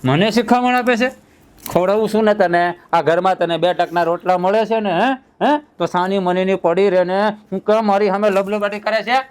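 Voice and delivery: angry husband. Acted. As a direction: put her in her place. Husband furious at backtalk.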